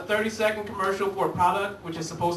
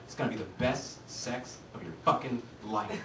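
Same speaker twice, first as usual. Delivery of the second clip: lower, softer salesman pitch; little voice; 7 semitones lower, 9 dB quieter than usual. Pretend. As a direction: tempt him softly, lower. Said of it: "a little voice that popped up".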